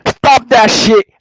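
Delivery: full Jamaican park-guy impression, sing-song at the end; imitating a Jamaican man for his friend; Jamaican accent. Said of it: "how you do that accent".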